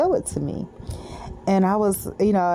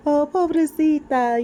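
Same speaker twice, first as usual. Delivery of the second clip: high, slow sing-song Venezuelan lilt; 10 semitones higher, slower than usual. Retold or imitated. Imitating a Latin woman at the zoo, sing-song Venezuelan. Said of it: "I didn't say it like she said it".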